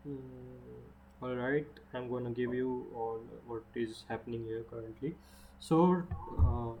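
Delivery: echoing room sound; speaking in an echoey hall; big hall echo. Real, not acted. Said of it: "sorry for the echoing".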